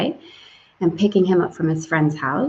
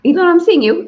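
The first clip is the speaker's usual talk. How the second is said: laughing; 10 semitones higher, 9 dB louder, faster than usual. Real, not acted. Laughing greeting a viewer.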